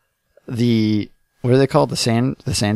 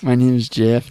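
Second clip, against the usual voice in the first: fake Spanish accent. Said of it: "the fake Spanish accent".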